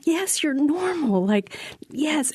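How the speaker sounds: high, drawn-out reassurance; emphatic reassurance. Retold or imitated. Circle telling a worried castmate she is normal, reassuring. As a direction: reassure slowly, pitched well up.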